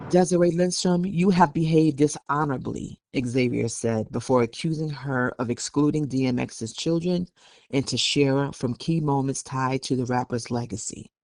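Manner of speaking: measured news-report delivery; news read. Acted. Co-host reading a report on the family dispute, news read. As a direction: read the article out evenly.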